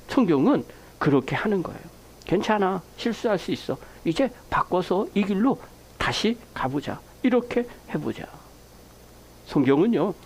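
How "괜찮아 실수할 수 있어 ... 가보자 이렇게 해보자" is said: comforting. Retold or imitated. Bible voiced as comforting God.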